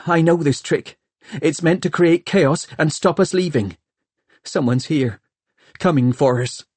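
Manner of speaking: a hint of panic pushing through control; edge of panic. A narrator's reading. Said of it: "an edge of panic in her voice".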